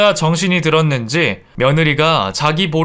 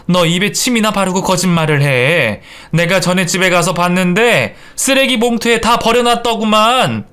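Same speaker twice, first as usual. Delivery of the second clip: higher, scolding tone; indignant accusation; 5 semitones higher than usual. Acted. Mother-in-law accusing daughter-in-law of lying, indignant. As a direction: call out the lie, indignant.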